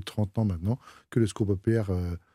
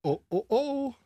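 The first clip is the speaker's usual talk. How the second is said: high, jolly Father Christmas laugh; belly-laugh like Santa; slower than usual. Shown as a demonstration. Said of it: "il peut le faire mieux que nous".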